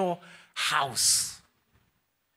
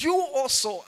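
laughing pun; 8 semitones higher, slower than usual. Shown as a demonstration. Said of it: "some are getting it now".

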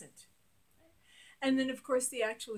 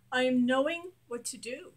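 louder, firm first take; strong affirmation; 6 dB louder than usual. Shown as a demonstration. Coach demonstrating affirmations, loud and firm. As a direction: declare it boldly. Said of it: "the first chakra is about action".

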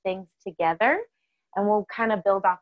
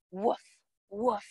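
soft woof; 5 dB quieter than usual. Pretend. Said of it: "and bark".

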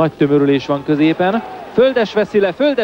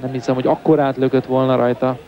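hungarian sports commentary. Real, not acted. Live football play-by-play.

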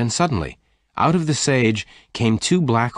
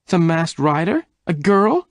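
high, louder astonished cry; cried; 9 semitones higher, 5 dB louder than usual. A narrator's reading. Jane hearing Bess was the masked rider, astonished cry. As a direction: disbelief bursting out. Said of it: "Jane cried".

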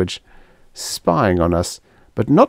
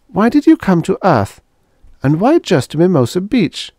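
pressing questions; 11 semitones higher, 4 dB louder than usual. Acted. Helen demands answers.

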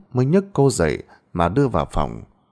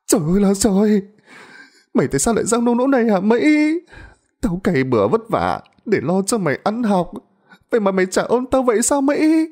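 high, lamenting mother's voice; wailing mother; 12 semitones higher, faster than usual. A narrator's reading. Mother laments to daughter Mỹ, high and wailing. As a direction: cry out in despair at her daughter.

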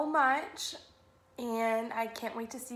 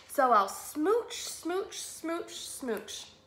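tail off smooch by smooch; playful smooching; 3 semitones higher, much slower than usual. Acted. Kiss fish smooching all his friends, playful.

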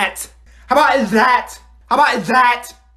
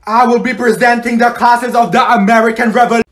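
higher, louder, forced projection; overly loud presenting; 4 semitones higher, 5 dB louder than usual. Acted. Student told to speak up presents, overly loud. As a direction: blare out the presentation title.

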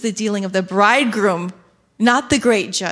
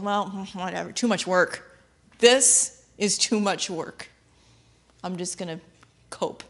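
lazy groom; 3 semitones lower than usual. Retold or imitated. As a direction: sound like it's all too much effort. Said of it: "He just kinda goes".

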